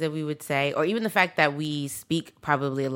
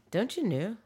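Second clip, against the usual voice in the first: soft mock Minnesotan; Minnesotan accent; 3 semitones higher, 7 dB quieter than usual. Asking if that's Minnesota, mock Minnesotan accent. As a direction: try a Minnesotan accent quietly. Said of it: "What about a Minnesotan accent?".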